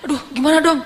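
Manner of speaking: keluhan bingung bernada agak tinggi; bingung cemas. Retold or imitated. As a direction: mengeluh panik ringan, menirukan sahabat. Retold companion's worried reaction. (nada bingung, sedikit memelas)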